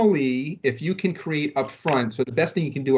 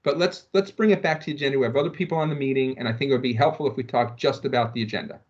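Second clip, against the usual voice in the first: firm meeting interruption; 3 semitones higher than usual. Shown as a demonstration. Trainer demos cutting off a rambling colleague, politely firm. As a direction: cut in firmly but courteously to reclaim the meeting. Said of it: "So I'm listening for an opportunity to use a segue".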